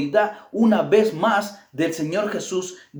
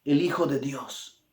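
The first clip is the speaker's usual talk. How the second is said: sudden loud cry of the demons; hammed-up loud demon cry; 8 dB louder than usual. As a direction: shout it like spirits trembling before him. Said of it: "daban voces diciendo".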